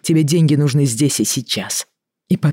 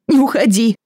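desperate plea; 8 semitones higher, 4 dB louder than usual. Acted. Wife begs him to stay.

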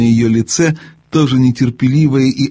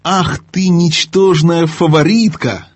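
much higher, slow furious cry; angry outburst; 6 semitones higher, slower than usual. Acted. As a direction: spit the insult in rage. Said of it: "в гневе вскричала королева".

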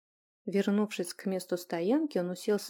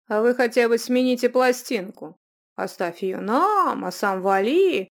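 defiant mockery; 8 dB louder than usual. Julian mocks the witches, defiant.

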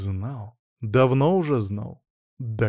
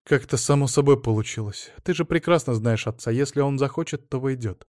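complaining. Acted. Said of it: "пожаловалась Ада".

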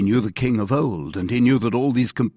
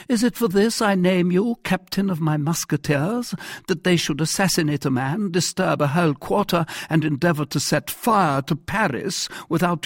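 higher, scolding royal voice; indignant king; 10 semitones higher, 4 dB louder than usual. Acted. King accusing captain over unruly musketeers, indignant. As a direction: reproach like an offended monarch.

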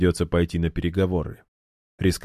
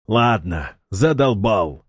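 mild angry shout; 3 semitones higher, slower than usual. A narrator's reading. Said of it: "сердито выкрикнул Ильдар".

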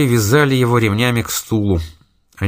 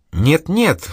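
pleading; 7 semitones higher than usual. A narrator's reading. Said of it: "взмолился тот".

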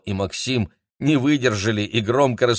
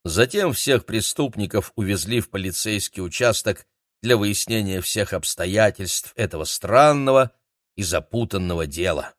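usual speaking voice

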